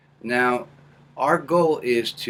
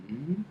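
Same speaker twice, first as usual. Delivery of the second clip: hum demo; 6 semitones higher, 6 dB quieter than usual. Shown as a demonstration. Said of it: "allow the sound to come down".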